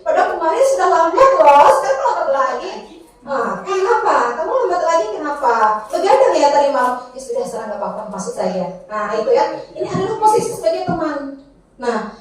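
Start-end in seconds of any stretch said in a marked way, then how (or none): 3.3-8.9 friendly teacher. Shown as a demonstration. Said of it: "nadanya ramah".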